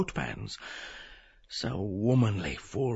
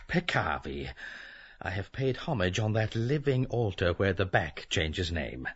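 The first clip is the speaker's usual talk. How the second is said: dejected. Acted. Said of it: "Bloom, dejected".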